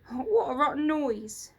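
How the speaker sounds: high, loud goblin creature; a curious little creaker peering up; sneaky storybook goblin asking. Acted.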